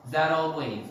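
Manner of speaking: "that always" run together like "thadalways"; linked with soft D. Shown as a demonstration. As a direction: tap the T of "that" into "always". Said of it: "They connect words".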